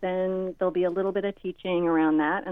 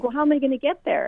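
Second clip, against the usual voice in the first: put-on whiny teen; 7 semitones higher, 4 dB louder, faster than usual. Son whining about ride.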